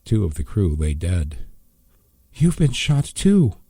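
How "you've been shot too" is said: high, loud and slow dismay; shocked. A narrator's reading. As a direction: say it aghast, slowly. Shocked at wounded father.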